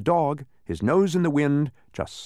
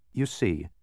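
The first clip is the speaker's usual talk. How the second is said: conciliatory; 6 semitones lower than usual. A narrator's reading. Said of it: "in a more conciliatory tone".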